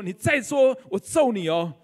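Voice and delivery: mock loud threat, 你再说 pushed up; retold loud threat. Husband threatening his wife in a quarrel, mock loud threat. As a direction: bark the threat like an angry husband. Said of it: "大声的说".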